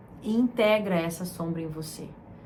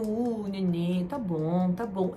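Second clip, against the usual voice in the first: put-on comforting a baby; slower than usual. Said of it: "E eu".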